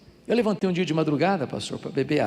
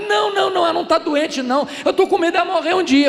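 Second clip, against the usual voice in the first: lightly voiced, higher and louder, a bit fast; hint of pleading seminarian; 14 semitones higher, 7 dB louder, faster than usual. Seminarian explaining his fear to the pastor, lightly pleading. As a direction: plead like a worried young man.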